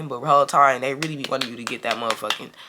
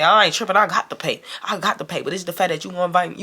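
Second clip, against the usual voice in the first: higher-pitched retold self-justification; explaining to waitress; 3 semitones higher than usual. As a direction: plead your case to the waitress. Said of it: "talking to the waitress just like this".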